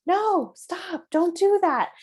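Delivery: high, loud alarmed stop; sharp no. Shown as a demonstration. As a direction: snap out a startled no. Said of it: "So often we come in and we say".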